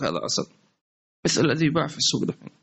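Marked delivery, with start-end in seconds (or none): 0.0-0.5 much lower, quieter sly seller's voice; mock honey seller. Mocking the market seller who swears it's honey, low and sly. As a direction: mimic the cheat vouching for fake honey.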